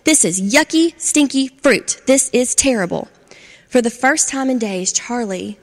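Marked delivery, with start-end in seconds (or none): 0.0-3.1 higher, louder, disgusted; disgusted shout. Acted. Charlie covered in skunk fruit, loud disgust.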